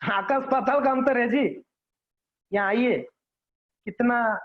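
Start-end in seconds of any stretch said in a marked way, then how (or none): 2.5-3.0 courteous, gentle invitation; sweet, polite. Shown as a demonstration. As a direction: invite them over respectfully. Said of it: "कितना मधुरता लगती है". (मधुर, आदर भरे स्वर में)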